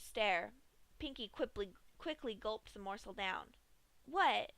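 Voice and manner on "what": high, bright pony chirp; a cheerful little pony caught mid-snack; Pinkie's voice. Acted. Pinkie to Dash, caught chewing, high cheery voice. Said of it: "Pinkie asked".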